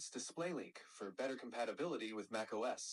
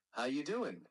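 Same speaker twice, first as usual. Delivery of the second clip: New York accent sample. Shown as a demonstration. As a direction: demo of a New York greeting. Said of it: "In New York".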